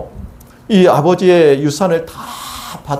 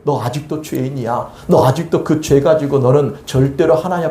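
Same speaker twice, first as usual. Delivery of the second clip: accuser's voice. Acted. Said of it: "누가 감히 나를".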